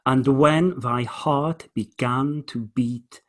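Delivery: slow, measured recital; poem reading. Shown as a demonstration. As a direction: read the stanza with weight, very slowly. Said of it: "I'll read it again".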